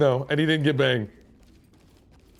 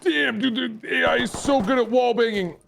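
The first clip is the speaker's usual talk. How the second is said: high impressed; 10 semitones higher than usual. Real, not acted.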